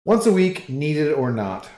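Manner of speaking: put-on a second go at the dealer's Spanish accent; retrying the poker dealer's catchphrase in a Spanish accent; Spanish accent attempt. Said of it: "I can't quite replicate".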